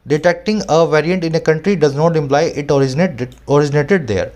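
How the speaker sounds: slow reading aloud; measured reading of the quote; slow article reading. Acted. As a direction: read the article line out deliberately. Reads article line aloud.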